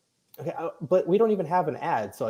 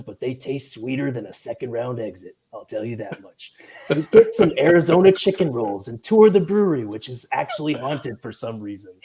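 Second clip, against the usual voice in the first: sexy radio voice. Pretend. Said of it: "the sexy radio voice".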